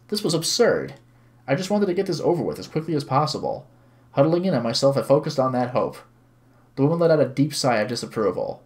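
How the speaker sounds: even, measured narrating voice; story narration. A narrator's reading. Streamer reads visual novel to viewers, story narration. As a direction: read the story aloud clearly.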